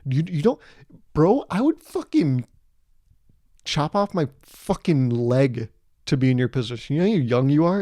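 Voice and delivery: mild mock rant, stretched-out swearing; Gary Vee. A motivation guru ranting at a baby, mild mock intensity. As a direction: imitate an intense motivator lecturing, not truly screaming. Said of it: "He would just scream at the baby and be like".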